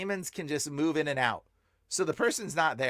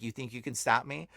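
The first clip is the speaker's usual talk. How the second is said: low, quiet demonic taunt; mock-menacing demon, dropped low and soft; 4 semitones lower, 3 dB quieter than usual. Demon speaking through the man.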